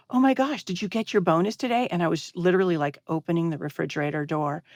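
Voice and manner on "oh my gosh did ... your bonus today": higher, eager retold question; excited husband. Husband asking his wife about her bonus, mildly excited. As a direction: mimic his keen excitement. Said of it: "my husband said".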